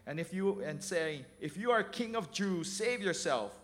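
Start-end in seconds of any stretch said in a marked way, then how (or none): 1.4-3.6 mocking. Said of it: "The soldiers also mocked him".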